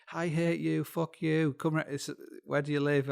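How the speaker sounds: hammed-up hostile outburst; mock angry rant. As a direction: play an irate internet troll, half in jest. Acts out angry online abuse.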